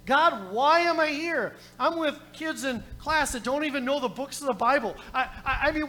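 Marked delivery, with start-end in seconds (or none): 0.1-1.5 retold cry to God. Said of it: "I'm screaming at God".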